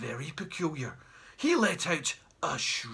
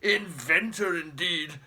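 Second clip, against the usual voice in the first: snorting scorn; slower than usual. Acted. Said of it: "snorted Great Uncle Jeremy".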